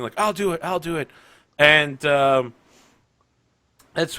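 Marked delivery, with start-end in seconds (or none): 0.2-1.1 eager, higher-pitched back-of-the-room volunteers; clamor to be picked, voice raised in pitch. Acted. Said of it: "they're all in the back clamoring".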